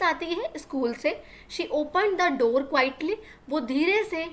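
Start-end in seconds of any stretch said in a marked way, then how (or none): 1.5-3.2 very slow, word by word for learners; slow classroom dictation reading; slow read-aloud. Shown as a demonstration. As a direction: spell the sentence out slowly for the class. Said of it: "teacher rereads the English line".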